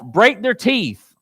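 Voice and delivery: slow, weighted reading of the psalm; slow quoted plea. Acted. Preacher quoting David's curse, slow and weighted. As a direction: lean on each word of the curse. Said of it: "he starts right off".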